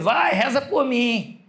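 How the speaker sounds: put-on slow, lightly drunk plea; mock drunken request; drunk teasing. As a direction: imitate a tipsy friend dragging the words. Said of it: "quando tava muito bêbado".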